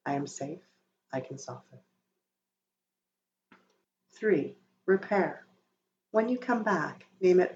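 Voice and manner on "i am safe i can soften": soft, hushed self-reassurance; said quietly. Shown as a demonstration. A parent calming herself, said quietly. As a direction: murmur it gently to yourself. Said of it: "say quietly".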